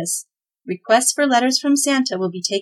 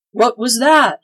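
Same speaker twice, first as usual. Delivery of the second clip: louder, urgent begging question; 3 semitones higher, 6 dB louder than usual. A narrator's reading. Claus begging the crone to tell him. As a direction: plead for the answer. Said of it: "begged Claus".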